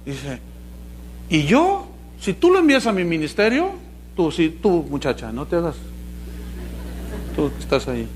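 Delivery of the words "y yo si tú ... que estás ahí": quick, pushy pitch for donations; mock televangelist. Preacher imitating another televangelist begging for money. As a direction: sell prosperity to the viewers. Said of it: "dice el otro".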